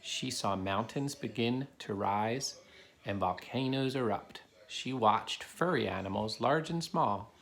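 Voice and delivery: put-on steady storybook narration for kids; reading a story aloud. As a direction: read it to the class like a picture book. Reads a picture book to children.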